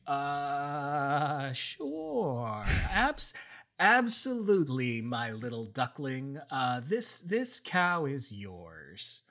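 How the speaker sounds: high, strained fake cheer; forced agreement. Zeus handing the cow to Hera with strained fake cheer. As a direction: grit out a yes you don't mean.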